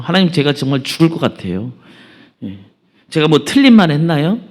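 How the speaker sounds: indignant self-justification, lightly played; mildly acted anger. Jonah answers God's question defiantly, mildly acted anger. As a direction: argue back with a touch of anger. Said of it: "하나님께 화를 냅니다".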